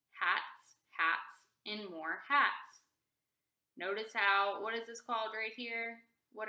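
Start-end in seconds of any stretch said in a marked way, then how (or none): 0.1-2.8 hats, hats, and more hats with small pauses; pauses at commas. Shown as a demonstration. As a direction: pause briefly at each comma. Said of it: "a comma represents a pause in our reading".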